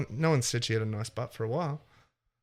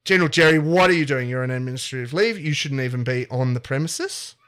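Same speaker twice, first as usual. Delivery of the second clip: stern scolding; 4 dB louder than usual. Acted. Principals catch him, scolding.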